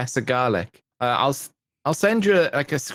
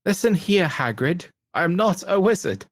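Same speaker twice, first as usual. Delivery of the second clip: higher, mock-indignant protest; imitated indignant Harry; 5 semitones higher than usual. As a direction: play at telling off the messenger. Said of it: "it's a classic video".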